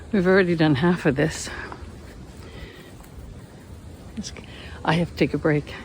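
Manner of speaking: panting from the climb; breathless, climbing the cliff; out of breath. Real, not acted. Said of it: "It's a workout".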